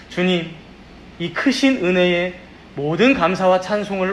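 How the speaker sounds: solemn, earnest pastoral prayer; public prayer. Real, not acted. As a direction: pray aloud in long sustained phrases, settling at each close. Leads a congregational prayer.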